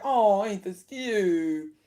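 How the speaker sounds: slow, mock-sweet cooing; mock cute. Mocking how viewers are meant to coo over it. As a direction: coo it like you're told it's adorable. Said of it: "we're supposed to be like".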